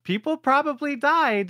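high, falsely pained fretting; mock guilty sigh. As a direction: twist the knife with fake concern. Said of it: "yeah, like".

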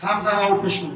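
হামজা ওয়াও পেশ উ slurred into one stream, the ওয়াও sound creeping in; run together. Shown as a demonstration. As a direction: rush হামজা into পেশ so an extra ওয়াও slips in. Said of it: "যদি একসাথে বলে ফেলি".

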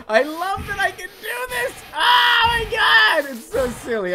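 high, loud laugh-squeal. Real, not acted. Delighted at the monster game, laughing squeal. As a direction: let the laughter break the words.

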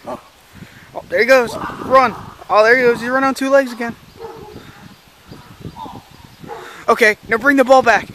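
high, loud calls to a dog; calling from far away. Acted. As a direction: cheer the dog on from afar. Owner calls to dog in yard.

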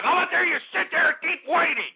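sneering, pitch jumps high; mocking retort. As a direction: throw the caller's words back with a sneer. Mocking caller's about time.

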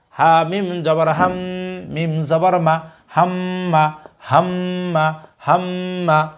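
teacher's recitation, letter by letter; slow spelling drill. Shown as a demonstration. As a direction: spell each letter slowly, then say the word thrice. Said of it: "আপনারা আমাদের সাথে repeat করার চেষ্টা করুন". (ধীরে বানান করে তিনবার উচ্চারণ)

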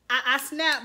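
sudden high burst of laughter; laughing burst. Real, not acted. Laughing at Franz's line, a high laughing burst. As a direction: crack up before you can speak.

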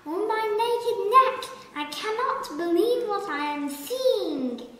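high, loud and fast amazement; loud, rushed disbelief; astonished giraffe. A narrator's reading. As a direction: blurt it out, overwhelmed with joy. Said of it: "gasped the giraffe".

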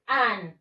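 "an" said as a clear model, with full vowel and final n; pronunciation demo. Shown as a demonstration. Teacher showing pupils the pronunciation, "an" said clearly. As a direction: pronounce "an" carefully for learners. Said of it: "La pronunciación es".

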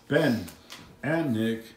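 a lightly done drill sergeant briefing; barking out orders like a mock army officer; army guy voice. Dad briefing the kids on cleaning as a mild army guy. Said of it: "I'm trying to talk like an army guy".

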